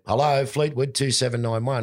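high copy of the landlady's greeting, normal pace; mimicked phone greeting. Lodger answers the phone like his landlady, high mimicking voice. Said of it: "So I went".

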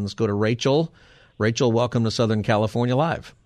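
radio announcer read. Acted. Radio host station plug.

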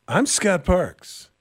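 slow, mock reporter sign-off; English-speaking reporter. Host mocking TV correspondents, slow imitated reporter sign-off. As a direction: imitate a correspondent signing off, slowly. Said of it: "the perfect English-speaking reporter".

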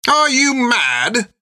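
very high, slow, incredulous; balking. Acted. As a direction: recoil in disbelief. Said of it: "balked the Whistle's captain".

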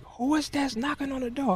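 high put-on dad voice; high mock grumpy father; irritated father. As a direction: ask like an annoyed dad behind a door. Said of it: "He was like".

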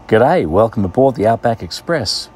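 a light Australian accent, cheery; a not-quite Australian train greeting. Shown as a demonstration. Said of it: "Not quite an Australian accent".

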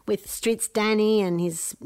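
a mother imitating her daughter's bubbly chatter; bubbly little voice. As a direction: lightly play the cheerful little girl. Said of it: "this little bubbly voice comes".

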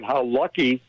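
"lucky" emphasized in earnest; stress on lucky. Real, not acted. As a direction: lean on the word "lucky". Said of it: "I really emphasize the word lucky".

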